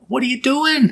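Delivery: high, startled "what are you doing"; startled question. Retold or imitated. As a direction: jump in alarm at a stranger. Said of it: "I bet she'd be like".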